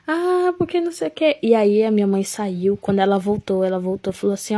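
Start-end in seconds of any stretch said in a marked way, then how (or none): 0.1-1.4 retold crying. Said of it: "eu desabei no choro, chorando".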